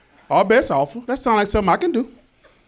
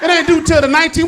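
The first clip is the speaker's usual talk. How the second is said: loud, frantic disbelief; panicked protest; 3 semitones higher, 5 dB louder than usual. Pretend. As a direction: shout it in alarm. Panicked reaction to early payment.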